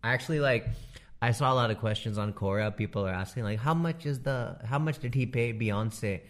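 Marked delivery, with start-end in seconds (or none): 3.6-6.2 put-on curious questioner in an Indian accent; Indian-accented imitation of an online asker. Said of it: "that's the accent I give people on Quora".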